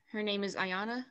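rising tune at the end of Ayana; like a question. Real, not acted. Student translating for the teacher, like a question. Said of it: "I said it like a question".

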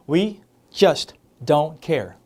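very slow, stress on we; slow, drawn-out model line. Shown as a demonstration. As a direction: drag it out for learners. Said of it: "우리는 별로 신경 안 써요". (아주 천천히 끌어서)

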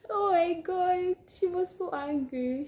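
high, loud, slow oh my God; excited exclamation. Real, not acted. Recalling how angry mom was, loud slow exclamation. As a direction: stretch it out in disbelief.

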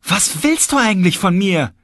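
panischer hoher Schrei des Magiers; geschrien. A narrator's reading. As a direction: schreit verzweifelt, deutlich höher. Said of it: "schrie er". (Magier schreit den Erzähler an, hoch und laut)

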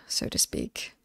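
soft whispered tag-on; sly whispered afterthought; whispered aside. Acted. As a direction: whisper the euphemism. Coy euphemism aside.

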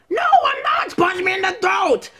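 worked-up cartoon yell; indignant yell. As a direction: shout it back in protest. Skit argument over a throat punch.

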